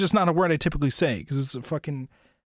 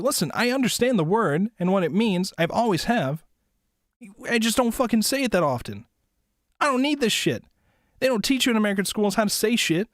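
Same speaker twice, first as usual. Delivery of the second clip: higher and louder, fed-up ranting; exasperated rant; 8 semitones higher, 5 dB louder than usual. Real, not acted. Streamer defending himself from chat teasing, loud exasperated rant. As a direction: vent at the chat, half laughing.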